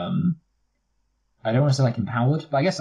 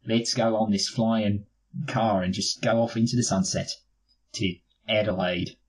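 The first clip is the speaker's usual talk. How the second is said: mock Australian. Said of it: "sounded slightly Australian towards the end".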